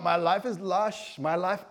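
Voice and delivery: slow, excited Bristolian impression; Bristolian accent. Preacher as an excited Bristol local, Bristolian accent. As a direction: act thrilled in a Bristol accent. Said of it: "give me a Bristolian accent".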